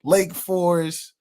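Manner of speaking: slow, drawn-out mock player voice; mocking Riley Mills. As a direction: drag each phrase out slowly, half-mocking. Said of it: "was like".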